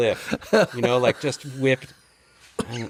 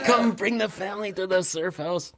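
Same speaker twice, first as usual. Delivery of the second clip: higher, playful invite, slow ending; imitating Martin joking; 7 semitones higher than usual. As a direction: pitch the invite up like a salesman joke. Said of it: "he's a joke".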